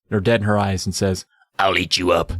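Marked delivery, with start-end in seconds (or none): 1.6-2.3 low, menacing monster threat. Retold or imitated. Carly Beth threatening a little girl.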